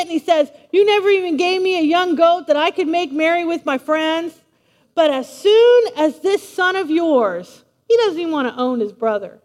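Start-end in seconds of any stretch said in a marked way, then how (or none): 0.7-7.6 mildly hammed-up grievance; little fit. Older son throwing a fit at his father, aggrieved. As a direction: complain with wounded indignation, dragging out the end. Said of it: "the son's throwing his little fit".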